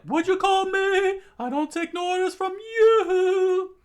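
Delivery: high, loud indignant yelling; outraged retort. A narrator's reading. Sanji answering an insult from Zolo, shouting angrily. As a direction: yell back at the insult.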